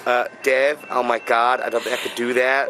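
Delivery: lightly put-on American accent; a hint of mock American. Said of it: "he's gonna talk in American".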